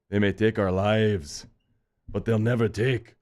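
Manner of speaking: rally the troops like William Wallace; lightly voiced Braveheart war cry, slowed for effect; Braveheart rallying speech. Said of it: "I did Braveheart that game".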